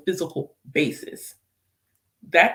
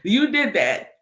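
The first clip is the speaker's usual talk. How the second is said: laughing, a bit louder; choked-up laugh; laughing through tears; 4 semitones higher, 5 dB louder, slower than usual. Real, not acted. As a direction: say it with an emotional laugh. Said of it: "And then I wanna cry".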